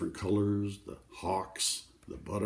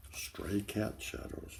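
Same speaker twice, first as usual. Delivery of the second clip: slow, softer, breathy savouring; savoured whisper; 7 dB quieter, slower than usual. Shown as a demonstration. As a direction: taste each word of Stray cat shadows slowly. Savouring the phrase again.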